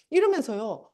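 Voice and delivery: ordinary talk, nothing marked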